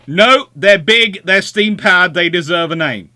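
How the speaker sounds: imitating a loud officer insisting; loud Peter. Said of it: "is quite loud".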